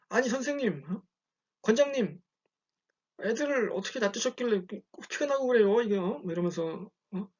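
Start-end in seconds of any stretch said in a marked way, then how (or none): 0.1-6.2 higher-pitched, indignant complaint; mock outraged mom scolding the instructor; angry mother. Mother storming in to confront the instructor, indignant. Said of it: "엄마가 화가 잔뜩 났어요".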